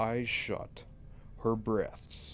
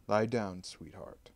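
kindly. Acted. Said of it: "I said kindly".

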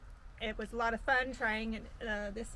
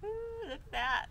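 high, slow delighted ooh; 10 semitones higher, slower than usual. Real, not acted. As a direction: savour the sight with glee. Admiring the flaky center.

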